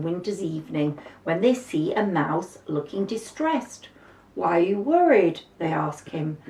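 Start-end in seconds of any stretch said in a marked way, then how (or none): 4.3-5.4 put-on children asking kindly. Children voiced in story.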